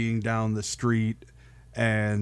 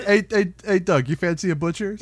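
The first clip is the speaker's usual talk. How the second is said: higher, louder mock Cockney; Cockney accent; 6 semitones higher, 4 dB louder than usual. Co-host joining the slang game, higher mock Cockney accent. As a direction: join in with hammed-up British slang. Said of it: "no fucking Cockney rhyming slang".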